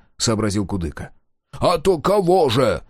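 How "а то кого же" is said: loud, slow, higher bark; gruff peasant barking an answer; barking yell. A narrator's reading. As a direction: roar it back at him. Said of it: "гаркнул Плоскыня".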